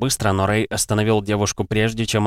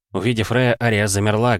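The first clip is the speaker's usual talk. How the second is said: ordinary talk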